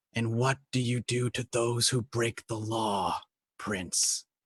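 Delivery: hushed, quiet, close leaned-in delivery. Leaning in, hand on his shoulder, asking about lawbreakers: quiet voice. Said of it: "lean in and just on a quiet voice".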